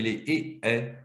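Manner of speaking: two neighbouring vowels, "et, et", closed then open; "et" said twice, vowel opening slightly; close vowel contrast. Shown as a demonstration. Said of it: "avec des sons qui sont très proches".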